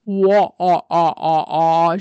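loud, hammed-up ghostly teasing; mock spooky wailing. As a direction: tease with drawn-out, exaggerated spooky moans. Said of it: "She's acting like".

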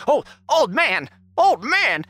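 red-faced, sputtering with rage; prison guard. Acted. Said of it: "he gets all red in the face".

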